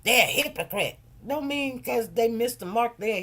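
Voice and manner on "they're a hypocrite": mock accusation. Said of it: "first thing we wanna say is".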